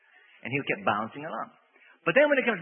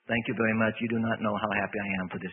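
mock stiff thanks; 5 semitones lower than usual. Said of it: "you say".

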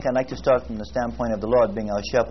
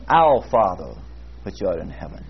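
prayerful; 5 semitones lower than usual. Retold or imitated. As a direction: say it like you know Him. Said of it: "it begins to say".

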